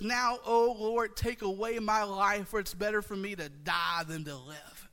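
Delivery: slow, pleading lament; Jonah's despair. Retold or imitated. Preacher voicing Jonah begging God to die, mild lament. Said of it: "feel the depth of Jonah's emotion".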